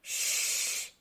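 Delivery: soft unvoiced shush; a quick shush to the others. A narrator's reading. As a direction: hush everyone urgently. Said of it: "shushed Dotty".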